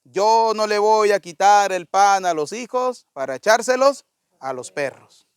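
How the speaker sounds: lightly voiced measured refusal, tailing down; retold Jesus. Jesus answers the woman who begged for her daughter, slow and deliberate. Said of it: "Y Jesús se envolvió hacia ella y le dijo".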